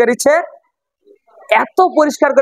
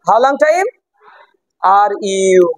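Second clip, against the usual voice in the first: "are you" lengthened and lower; drawn out; 3 semitones lower, much slower than usual. Shown as a demonstration. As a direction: stretch out "are you" after a short pause. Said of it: "লম্বা করার কোনো কারণ নাই".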